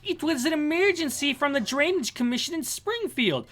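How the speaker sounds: high-pitched mock Australian boy; Australian kid. Kid explaining the call to his father, high Australian voice. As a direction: plead it high, in an Aussie accent.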